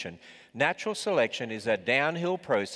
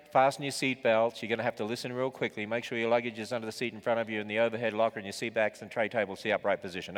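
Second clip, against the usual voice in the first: flight attendant; 2 semitones lower than usual. Acted. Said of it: "You can tell I fly too much".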